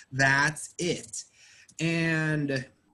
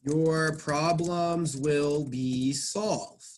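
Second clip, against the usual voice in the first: slow dictation of the example; slow, careful example sentence; slow reading aloud; slower than usual. Shown as a demonstration. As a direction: read slowly, word by word. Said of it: "let me show you another passive voice sentence here".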